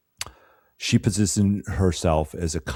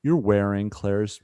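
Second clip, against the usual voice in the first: knowing boss lady. Retold or imitated. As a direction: needle her with a knowing smirk. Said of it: "she's like".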